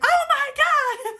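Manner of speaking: high, loud, drawn-out imitated squeal; hammed-up thrilled cry, stretched out; excited squeal. Reader imitates siblings thrilled by turquoise water, excited squeal. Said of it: "They got all excited".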